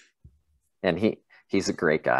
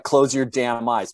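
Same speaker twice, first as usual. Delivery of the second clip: mild mock yell, higher and slow; screaming trainees; 4 semitones higher, slower than usual. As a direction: retell an angry scream at half strength, drawn out. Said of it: "People are screaming at each other".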